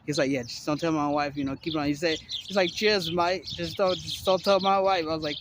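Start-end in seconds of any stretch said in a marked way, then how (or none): 2.7-5.0 lightly put-on British accent; imitated British accent. Former sailor asks a mate to keep a secret, imitated British accent. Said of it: "he says it in his".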